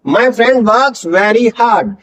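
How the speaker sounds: friend with f, very slow; words spaced out; slow careful demo. Shown as a demonstration. Teacher models f in friend, slowly. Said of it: "फे का sound आएगा".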